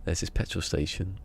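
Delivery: a shaky-skilled stab at Australian; attempted Australian accent. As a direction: try out an Australian accent, not quite landing it. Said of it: "I'm trying to do an Australian accent".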